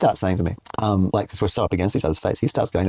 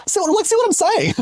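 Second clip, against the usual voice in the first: vindicated exclaim. Retold or imitated. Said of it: "And I said".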